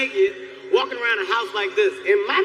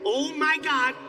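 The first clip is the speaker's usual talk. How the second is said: higher-pitched spiralling worry; mock panic; 5 semitones higher than usual. Man fears this is his new norm, in high panicky voice. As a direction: let the worry climb to a high wail.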